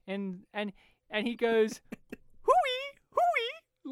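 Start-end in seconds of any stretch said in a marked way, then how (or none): 2.4-3.9 very high, loud hooting call; mock sing-out call for someone in another room. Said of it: "like, calling her".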